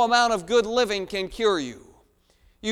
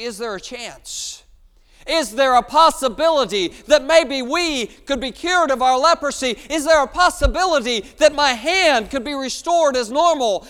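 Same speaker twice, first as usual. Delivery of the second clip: loud, pleading, higher voice of a leper; desperate pleading; 6 semitones higher, 8 dB louder than usual. Acted. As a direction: beg loudly for a cure. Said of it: "they say".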